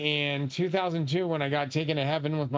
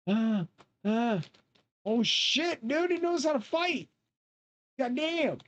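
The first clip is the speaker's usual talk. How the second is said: much higher, yelping alarm; startled; 10 semitones higher, slower than usual. Real, not acted. Watching a tough in-game fighter, high startled yelp. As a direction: react like he just got jumped.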